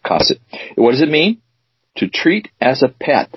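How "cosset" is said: "Cosset" stressed on COS, low-pitched; stress on first syllable. Shown as a demonstration. Host presenting the word of the day, "Cosset" stressed up front. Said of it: "pronounced with the emphasis on the first syllable".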